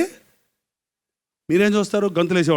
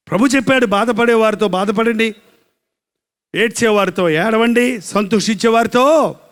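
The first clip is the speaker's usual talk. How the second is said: raised, drawn-out sermon delivery; full-force preaching; 5 semitones higher, 5 dB louder than usual. Acted. Preacher telling the congregation of a bereaved mother, full-force preaching. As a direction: preach it out, higher than normal talk.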